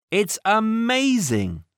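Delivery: put-on high, amazed boy's voice; excited. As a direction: gasp it out in wonder. Character marvels at the park.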